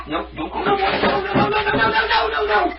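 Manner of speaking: urgent pleading to stop him leaping out; alarmed no no no. Real, not acted. Owner begging the escaping cat to stay, alarmed and high.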